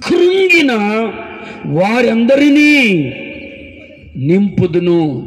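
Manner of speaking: proclaimed verse. Shown as a demonstration. Preacher declaring the promise to the crowd, slow. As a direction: preach it slowly, falling to the end. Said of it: "ఆ".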